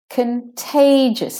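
contagious as kuhn-TAY-jus, high drawn-out TAY; squished first syllable. Shown as a demonstration. Teacher modelling the word, short weak con in contagious. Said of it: "the syllable is squished and made shorter".

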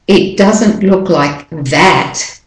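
slow, "that" with a full open "at" sound; strong form of that. Shown as a demonstration. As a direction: give "that" its full "at" vowel, slowly. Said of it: "I'm definitely saying an at in that".

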